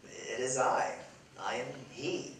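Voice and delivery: feigned modesty, slightly grand; mock humility. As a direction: play humbly accepting your own fame. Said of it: "with as much humility as I could muster".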